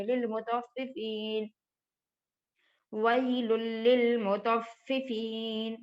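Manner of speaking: slow, drawn-out Quran reading; slow recitation. Shown as a demonstration. Teacher models the verse slowly for the class. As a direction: recite ویل للمطففین slowly. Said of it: "ہم اس کو ایسے پڑھیں گے".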